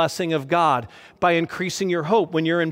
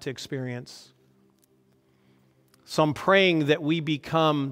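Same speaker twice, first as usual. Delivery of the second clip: earnest prayer. Acted. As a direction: pray over the congregation, gently. Pastor leads closing prayer.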